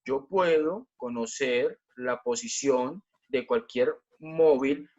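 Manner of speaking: very slow, phrase-by-phrase delivery; measured, with deliberate gaps so every term lands; emphatic careful repetition. Shown as a demonstration. Teacher repeating the rule for students to listen well, slow and deliberate. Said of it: "escuchen bien".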